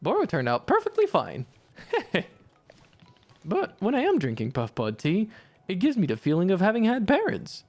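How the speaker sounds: lightly voiced, formal tea-shop spirit musing; Boro's voice. Boro muses to Alta about tea.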